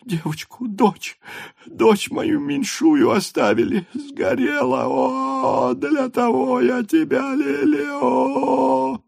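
high, crying wail rising to a shout; wailing grief. A narrator's reading. Mother wails for the daughter left in the fire. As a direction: sob it out, breaking into a cry.

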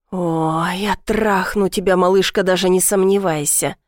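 plain reading voice

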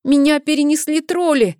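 high, loud tearful cry; almost crying, frightened boy; near tears. A narrator's reading. Frightened boy nearly in tears cries out, high and loud. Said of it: "Гутхарм чуть не плакал".

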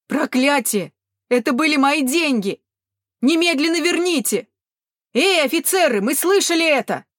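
high, loud furious cry; angry shout. A narrator's reading. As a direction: shout angrily at the guards. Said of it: "крикнул кто-то в толпе". (злой крик из толпы)

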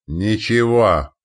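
slow, loud inhuman growl; eldritch horror. Acted. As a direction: growl it like a monster. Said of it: "прорычал он грубым нечеловеческим голосом".

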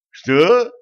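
sharp high startled what; surprised. A narrator's reading. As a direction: blurt it in shock. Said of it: "удивился повелитель тьмы". (удивлённо)

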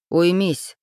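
barked order. A narrator's reading. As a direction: shut her up with one word. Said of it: "рявкнул Демид".

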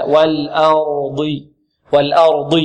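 low, drawn-out "والأرض" with light hamza, heavy ر and ض; correct tajweed model. Shown as a demonstration. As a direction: recite "والأرض" slowly, thickening ر and ض. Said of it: "نعم، هكذا".

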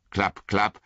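hooves coming nearer; hoofbeats. A narrator's reading.

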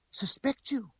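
very high, indignant woman's voice; incredulous exclamation. A narrator's reading. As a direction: exclaim it in outraged disbelief. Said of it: "she exclaimed".

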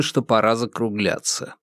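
ordinary delivery

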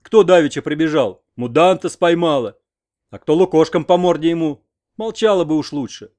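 put-on old man shouting down his wife; shouting back. A narrator's reading. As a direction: hurl it back at her.

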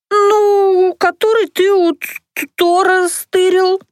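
high tipsy eager explaining. Acted. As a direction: explain it brightly, drunk-keen. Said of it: "охотно пояснила я".

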